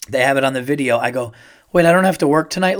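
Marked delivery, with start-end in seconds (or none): 1.7-2.8 high, loud, fast question; retold astonishment. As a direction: blurt it out in disbelief. Retold stunned question to wife.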